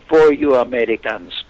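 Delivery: imitated Iranian accent at the speaker's own pitch; heavy Iranian accent. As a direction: quote the man in his thick Iranian accent. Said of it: "in a heavy accent".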